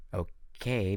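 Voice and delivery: soft hushed aside; whispering. A narrator's reading. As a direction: whisper it to a friend. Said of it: "Bianca whispered to me".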